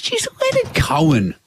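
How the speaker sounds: high-pitched, swooping retold musing; wondering aloud. Mum wonders about a singer's age, retold wondering. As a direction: imitate mum puzzling it out, pitch leaping up. Mum's musing acted in story.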